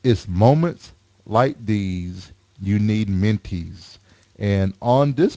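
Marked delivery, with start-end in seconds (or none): 0.0-4.0 slow slogan delivery; slow ad read. Acted. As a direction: read it like a tagline. Reading slogan on wrapper.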